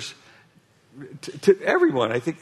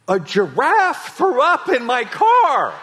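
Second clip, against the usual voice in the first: exasperated laughing quote; 7 semitones higher, 6 dB louder, slower than usual. Retold or imitated. Guy explaining to border guards.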